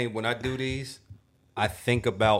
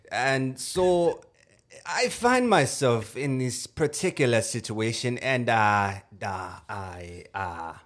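put-on German accent. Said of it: "let's do a German one".

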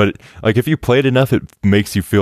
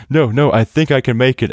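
doomed pilot; 7 semitones higher than usual. Retold or imitated. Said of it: "about to die, he's like".

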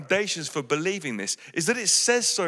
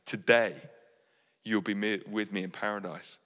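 tender reply; 7 semitones lower, 6 dB quieter than usual. Acted. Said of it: "Jesus says".

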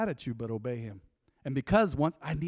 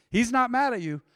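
"not" hit loud and high; stress on not; 7 semitones higher, 6 dB louder than usual. Real, not acted. Preacher insisting to the congregation, "not" punched. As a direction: lean hard on "not".

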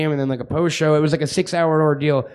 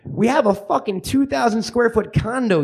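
put-on indignant kid; 6 semitones higher than usual. Kid answers parents with disbelief.

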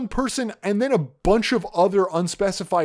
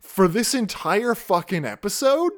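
exasperated; 4 semitones higher than usual. Retold or imitated. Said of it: "and I'm like".

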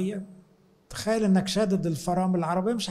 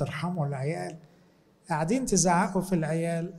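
soft plea; 4 dB quieter than usual. Real, not acted. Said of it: "كنت عاوز أقول للأمهات".

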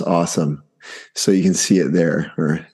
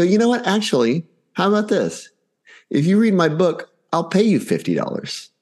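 much higher, eager sales-pitch voice; excited pitch to kids; 11 semitones higher than usual. Retold or imitated. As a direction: dangle the offer like a thrilled salesman. Dad pitching a paid offer.

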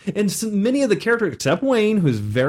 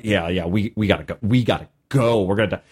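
mock scared players; 9 semitones lower than usual. Players panicking to leave.

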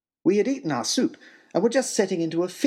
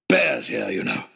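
wild trapper; 2 semitones lower, 3 dB louder than usual. Acted.

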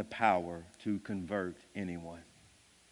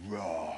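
small roar; 6 semitones lower, 4 dB quieter than usual. Acted. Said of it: "And then he says".

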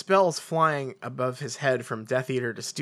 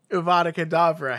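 screaming; 5 semitones higher, 5 dB louder than usual. Acted. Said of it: "Harry screamed at Dumbledore".

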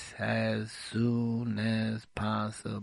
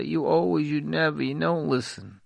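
louder, higher voice of an accusing mate; 3 semitones higher, 7 dB louder than usual. Acted. An upset mate snapping back at an apology, loud and accusing. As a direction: throw the blame back at them, louder. Spouse's complaint voiced in quarrel.

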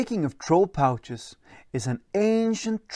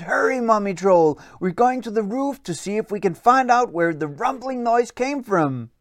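higher eager calling out; higher excited shout-out; 5 semitones higher than usual. Acted. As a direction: call her along excitedly. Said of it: "they shouted".

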